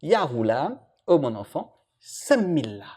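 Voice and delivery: softly, like a kind elder; soft fatherly call to a boy; gentle. Retold or imitated. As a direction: coax the child tenderly. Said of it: "lui a dit gentiment".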